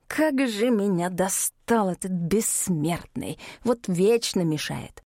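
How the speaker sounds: slow, words pushed through teeth; through gritted teeth. Acted. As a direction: grit your teeth and grumble. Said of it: "сказал сквозь зубы". (сквозь зубы)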